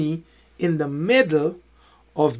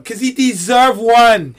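loud, slow, higher-pitched comeback; mock indignant retort; 4 semitones higher, 8 dB louder, slower than usual. Coach answering a parent about the child, mock indignant. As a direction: hammer it out loudly, drawing it out. Acted argument with a complaining parent.

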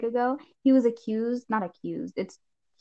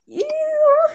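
grossed out; 9 dB louder than usual. Retold or imitated. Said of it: "I was like".

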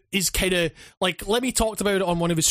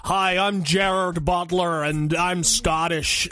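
mock Scottish accent; slower than usual. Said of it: "not quite Gerard Butler levels".

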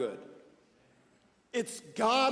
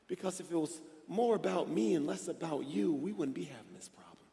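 the Lord; 2 semitones lower, 5 dB quieter than usual. Retold or imitated. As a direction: imitate a quiet divine correction, fading to breath. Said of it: "the Lord in that moment whispered to me".

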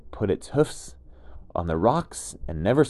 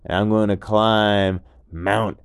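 much higher, louder, slow easygoing dude voice; laid-back gecko; 3 semitones higher, 9 dB louder, much slower than usual. Acted. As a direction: call up cheerfully from below. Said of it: "And the gecko said".

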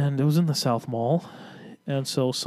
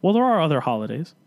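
a touch of sass, lightly louder; pointed retort; 3 semitones higher, 3 dB louder than usual. Retold or imitated. Clerk retelling his pointed reply to the customer, lightly sassy. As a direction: lightly mimic snapping back at a rude customer. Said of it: "I just said it like that".

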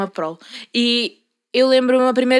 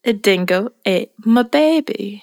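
slow, low mock Australian accent; 7 semitones lower, much slower than usual. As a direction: drag out a hammed-up Australian accent. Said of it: "Faz lá um sotaque". (sotaque australiano lento e exagerado, a brincar)

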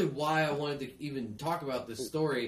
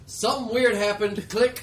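nervous caller; 6 semitones higher, 7 dB louder than usual. Pretend. Mock anonymous 911 call.

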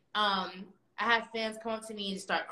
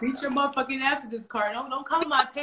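cussing a troll; 4 semitones higher, 4 dB louder than usual. Pretend. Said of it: "she said she was cussing the troll".

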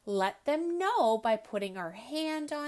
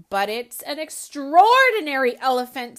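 wise father; 3 semitones higher, 14 dB louder than usual. Acted. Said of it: "said her father wisely".

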